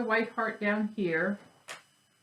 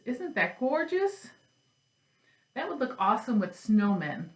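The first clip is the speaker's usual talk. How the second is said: delighted; 3 semitones higher than usual. Real, not acted. Admiring new fabric.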